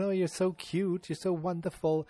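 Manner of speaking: high, slow gushing wife impression; Edith. Host as the wife praising the carolers, gushing impression. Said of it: "Edith gives them a little something".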